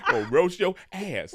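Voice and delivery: a touch of the dad voice, drawn out; lightly imitating dad. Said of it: "you hopping in the voice so quick".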